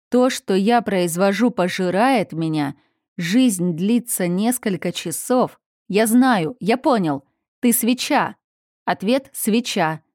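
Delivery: sudden realisation. Acted. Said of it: "озарённый внезапной догадкой".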